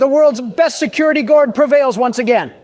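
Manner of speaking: high excited triumphant squeal; helium voice. Real, not acted. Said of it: "Pardon my helium voice".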